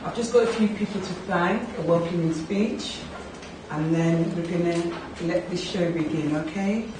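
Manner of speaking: hoarse sore throat voice; talking through a sore throat. Real, not acted. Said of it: "I've got a really sore throat".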